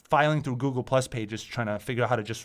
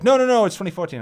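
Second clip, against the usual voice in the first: much higher, louder mock protest; mocking doomsayers; 10 semitones higher, 11 dB louder, faster than usual. Mimicking doomsayers pushing the date again, high and loud. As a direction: squeal it like a frantic prophet. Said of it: "And then it's like".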